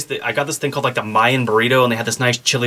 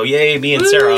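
excited cheer; 3 semitones higher, 4 dB louder than usual. Real, not acted. Cheering about the new car.

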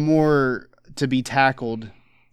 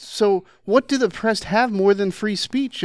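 put-on higher, rushing Canadian accent; 9 semitones higher than usual. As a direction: Jordan Peterson Canadian accent impression. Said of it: "I can't do a Canadian accent very well".

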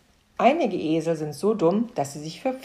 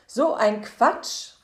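slow, slightly louder mock protest; slow scoffing exclamation; children calling out; 5 semitones higher, 4 dB louder, much slower than usual. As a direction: drag out the children's scoffing call. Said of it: "riefen die Kinder".

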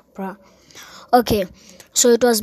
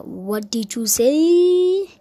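slow, higher mock teacher demand; stern teacher; 4 semitones higher, much slower than usual. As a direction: draw it out like a suspicious teacher. Strict teacher confronting the kid.

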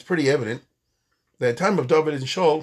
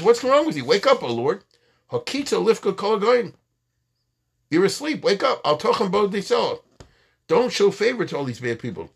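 desperate plea to God; 7 semitones higher than usual. Retold or imitated. David crying out to God.

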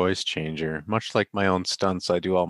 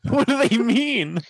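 laughing; 4 dB louder than usual. Real, not acted. Laughing in disbelief at article.

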